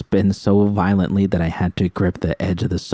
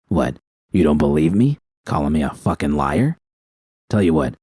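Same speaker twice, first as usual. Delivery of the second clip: taunting villain; 2 semitones lower than usual. Acted. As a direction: toy with her cruelly. Bishop taunting, low.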